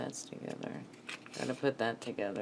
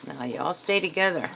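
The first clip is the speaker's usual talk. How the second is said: a touch of Southern twang; lightly Southern, coaxing them to stay put; Southern accent; 3 semitones higher, 5 dB louder than usual. Real, not acted. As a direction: let a little Southern slip out. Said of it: "Got my Southern coming out of me".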